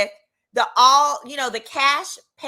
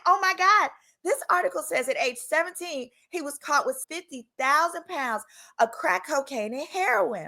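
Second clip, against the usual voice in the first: excited gossip; 5 semitones higher than usual. Retold or imitated. Excitedly telling friends the news.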